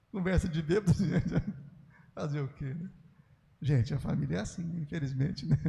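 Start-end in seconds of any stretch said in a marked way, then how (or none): none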